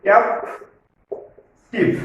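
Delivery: ক্যাপটিভ slowly, with a long gap between ক্যাপ and টিভ; teacher sounding out ক্যাপটিভ syllable by syllable; split into syllables. Shown as a demonstration. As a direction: break ক্যাপটিভ into two separate beats. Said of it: "syllable ভাগ করে করে".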